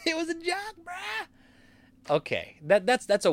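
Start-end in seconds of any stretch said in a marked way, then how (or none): 0.1-1.3 high, squeaky mock bro voice; hammed-up dudebro excuse. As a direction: whine it like a cornered bro. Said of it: "So now it's the".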